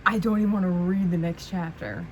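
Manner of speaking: loud, fed-up protest; bugged. Real, not acted. Reader refuses the next chapter, bugged. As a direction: refuse it in real exasperation. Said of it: "I'm so bugged at her".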